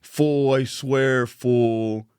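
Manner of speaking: code switch into street talk; slangy drunk voice. Retold or imitated. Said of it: "to the end of the night being like".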